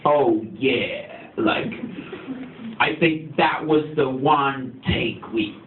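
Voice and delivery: put-on light mix of American and English accent, slow and relaxed; Zach's half-English accent. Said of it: "So he kind of talks like this".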